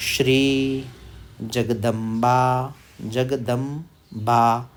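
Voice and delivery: जगदम्बा drawn out slowly, every syllable long; slow recitation. Shown as a demonstration. Teacher recites slowly for beginners, drawn out. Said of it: "recites slowly for learners".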